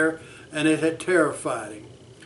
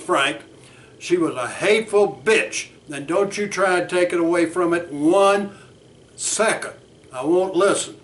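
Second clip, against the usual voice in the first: heated client. Acted. Bert arguing with his therapist Frank, heated. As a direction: push back, barely cooling down.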